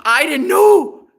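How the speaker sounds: high, loud wail through laughter; loud, drawn-out amused denial; laughing protest. Real, not acted. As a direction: stretch it out as a laughing plea.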